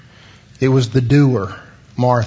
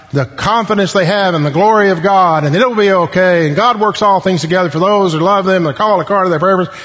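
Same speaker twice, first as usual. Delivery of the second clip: rattled-off reassurances, higher, speeding up at the end; mimicked pious platitudes; 5 semitones higher, faster than usual. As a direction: imitate a well-meaning visitor who won't stop talking. Mimics church visitor rattling off platitudes.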